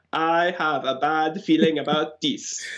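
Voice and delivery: Orisa robot voice. Acted. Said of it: "that's a good accent".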